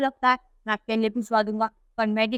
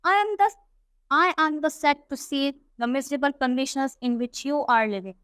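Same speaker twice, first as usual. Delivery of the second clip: reads the English text slowly and carefully; unhurried storybook reading; slow story reading; much slower than usual. A narrator's reading. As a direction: read it out word by word for the class. Slow English read-aloud of story.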